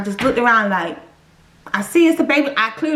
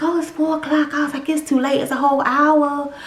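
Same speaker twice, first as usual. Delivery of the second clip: reluctant excuse; 4 semitones higher than usual. Retold or imitated. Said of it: "trying to come up with excuses not to go".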